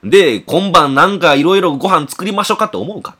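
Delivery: lecturing father. Retold or imitated. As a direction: hammer the point home at him.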